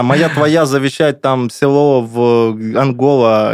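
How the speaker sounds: very slow pidgin Russian; drawn-out broken Russian of a scam prince; broken foreign accent. Retold or imitated. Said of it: "написал принц из Нигерии". (ломаный русский с акцентом)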